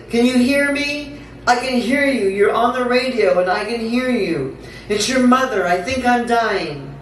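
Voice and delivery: high, urgent plea without real shouting; pleading recited outcry; mock scream. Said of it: "I scream at the radio".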